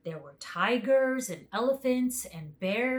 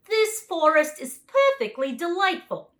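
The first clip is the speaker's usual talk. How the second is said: high, loud lion voice; a big, booming lion; lion's voice; 9 semitones higher, 9 dB louder than usual. A narrator's reading. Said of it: "declared the lion".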